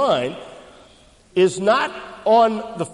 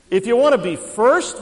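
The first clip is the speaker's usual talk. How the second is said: calling to the crowd; 5 semitones higher, 6 dB louder than usual. Shown as a demonstration. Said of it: "we'll try the center section".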